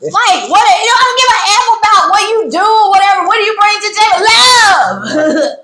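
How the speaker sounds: fast, high-pitched mock tirade; imitated going off. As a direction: rattle off an exasperated yelled rant. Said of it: "like, going off".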